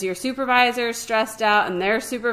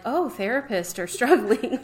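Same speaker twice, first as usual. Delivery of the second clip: laughing mock quote; 3 semitones higher than usual. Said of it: "the rest of the world is like".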